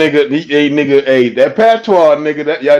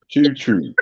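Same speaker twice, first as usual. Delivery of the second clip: Baltimore accent; 4 semitones lower, 6 dB quieter than usual. Real, not acted. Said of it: "say it".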